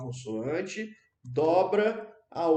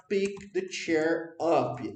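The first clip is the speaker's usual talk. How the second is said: slow, deliberate teacher model; slow model phrase; much slower than usual. Shown as a demonstration. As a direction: spell it out for the class. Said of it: "ou você pode falar". (frase modelo bem devagar)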